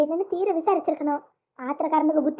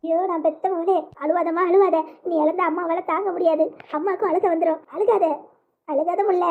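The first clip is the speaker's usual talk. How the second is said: put-on mother close to tears, soothing her child; tearful comforting. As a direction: plead with her not to cry. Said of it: "அம்மா, நீ ஏன் அழுகுற?". (கண்ணீரோடு தேற்றும் அம்மா)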